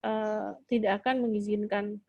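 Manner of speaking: slow, measured parental refusal; calm firmness. Shown as a demonstration. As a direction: calmly hold the line. Calm parent answering loud child.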